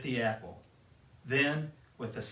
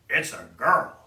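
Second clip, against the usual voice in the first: louder dwarf voice, surprised; Doc's voice; 9 dB louder than usual. Acted. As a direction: announce the find. Said Doc.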